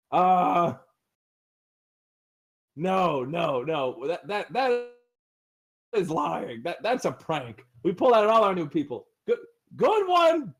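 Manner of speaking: nervous, rising fake laugh-off; awkward lizard denial. Lizard guards dismiss the screams to the party, awkward. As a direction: brush it off as a prank.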